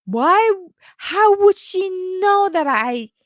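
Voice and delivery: a retold flare of anger at being doubted; getting mad. Recalling her anger at the coach who doubted her, indignant. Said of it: "suddenly I start getting mad".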